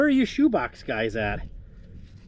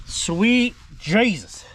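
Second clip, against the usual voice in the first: amazed relief; 5 semitones higher, much slower than usual. Real, not acted. Surprise that it turns.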